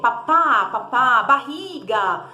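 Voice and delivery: put-on high, animated toddler-talk with sound effects; demo with gestures. Shown as a demonstration. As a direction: act out each word with a gesture. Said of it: "faça muitos gestos". (fala animada com gestos e barulhinhos)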